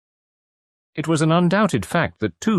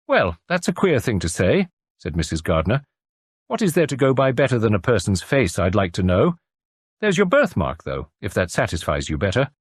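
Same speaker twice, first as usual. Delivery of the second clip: cosy country landlady; kindly farm wife. Acted. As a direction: fuss over the patient kindly. Landlady character voice.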